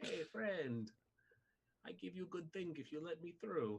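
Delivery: fake Russian accent, squeaky and very high. A speaker voices a character the entire time in a bad Russian accent. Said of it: "do a bad Russian accent the entire entire time".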